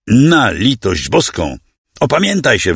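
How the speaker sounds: lekko wyższy, błagalny okrzyk, bez prawdziwego wrzasku; stłumiony krzyk. Acted. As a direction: zagraj wołanie o litość, raczej powściągliwie. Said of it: "wrzasnęła". (hrabianka błaga kuzyna, by się opamiętał, lekko markowany krzyk)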